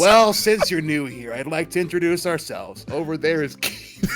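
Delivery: hammy schoolyard villain; bully voice. Acted. Bully introduces his gang.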